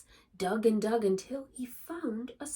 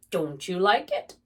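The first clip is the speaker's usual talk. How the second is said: calling out; 11 dB louder than usual. Acted. Badger calling after Rabbit.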